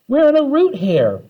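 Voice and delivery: high shout back. Acted. Kids inside the root hair answering Phoebe, shout. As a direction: call it back loudly. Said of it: "we shouted back".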